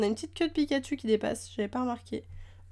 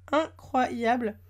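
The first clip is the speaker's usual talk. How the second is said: "Incroyable" stretched very slow, each syllable lingered; savoring incroyable; much slower than usual. Real, not acted. Praising the card to viewers, a slow drawn-out word. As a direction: draw out "Incroyable" slowly in admiration.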